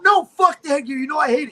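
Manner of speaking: high, heated mock refusal; retold angry refusal. Fighter refusing the coach's order over headgear, retold angry refusal. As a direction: re-enact an argument, pitch jumping up.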